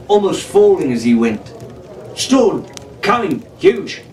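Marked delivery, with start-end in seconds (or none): 2.1-4.0 gasped bursts, high and breathless; breathless from running down the pyramid, panting. A narrator's reading. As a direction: blurt between gasps, out of breath. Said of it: "he panted".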